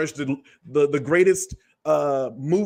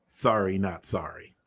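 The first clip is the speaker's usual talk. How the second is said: flippant; 7 semitones lower, 4 dB quieter than usual. Retold or imitated. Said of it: "Instead, it ain't".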